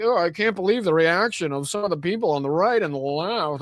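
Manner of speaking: a put-on, mock pearl-clutching voice; mock the hand-wringing commentator, lightly voiced. Mocking Piers Morgan online for his reactions, in a light mock pearl-clutching voice. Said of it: "Piers Morgan clutching their pearls online, like".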